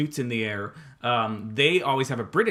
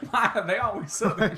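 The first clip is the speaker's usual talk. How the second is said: high, laughing echo; 10 semitones higher than usual. Real, not acted. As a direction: crack up while repeating the question. Echoing the joke while laughing.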